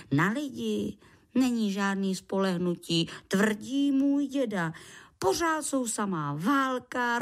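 lightly voiced creature holding forth; self-assured little creature. Lichožrout explains supplies and quotes grandpa, self-assured. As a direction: lay out your points with deliberate assurance.

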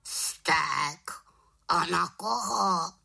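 high questioning raven voice; curious raven. A narrator's reading. Raven asking who she is angry at, high voice. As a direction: ask in surprise as the raven.

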